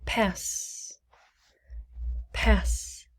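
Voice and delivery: whispered. Shown as a demonstration. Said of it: "How many syllables in pass?".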